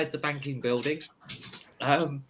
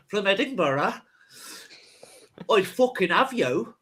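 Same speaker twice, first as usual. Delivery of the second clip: put-on higher-pitched botched Cockney-Irish accent; muddled put-on accent; 4 semitones higher, 3 dB louder than usual. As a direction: threaten them in a badly faked British regional accent. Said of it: "I should do this in an accent".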